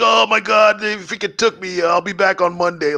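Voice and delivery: high, put-on distressed victim; mock panic. Kidnapping faker explaining himself to people at work, mock panicked. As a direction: play up a fake victim's alarm.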